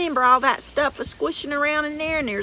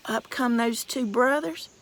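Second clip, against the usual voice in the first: usual speaking voice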